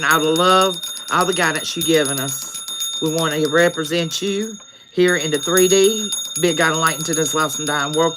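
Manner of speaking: steady, earnest prayer voice; closing prayer. Real, not acted. Streamer prays over followers to close, earnest prayer voice.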